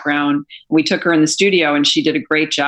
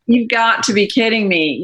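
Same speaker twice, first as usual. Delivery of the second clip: higher-pitched, lightly acted astonishment; retold disbelief; 5 semitones higher than usual. Retelling her amazed reply to Rodney's news, mildly incredulous. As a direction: replay being amazed, pitch lifted.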